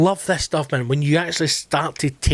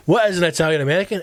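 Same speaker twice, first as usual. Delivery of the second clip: lightly imitated chef, quick and higher; Italian chef; 5 semitones higher, much faster than usual. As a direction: rattle off a mock-baffled question. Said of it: "he's talking to this Italian chef".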